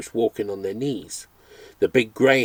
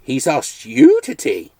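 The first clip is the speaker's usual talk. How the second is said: surprised; 6 semitones higher, 7 dB louder, slower than usual. A narrator's reading. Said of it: "I gulped".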